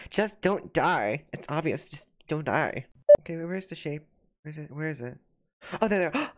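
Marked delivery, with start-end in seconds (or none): 0.1-1.2 drawn out slowly, word by word; slow reading aloud. Shown as a demonstration. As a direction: read the chat comment very slowly. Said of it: "I love what people are saying".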